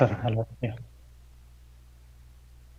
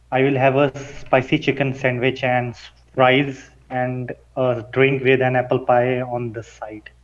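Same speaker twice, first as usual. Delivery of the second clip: quicker, more run-together delivery; a little faster. Shown as a demonstration. Student repeating the order faster at his coach's request. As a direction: rattle the order off at a brisker pace. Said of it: "say it a little bit faster for me".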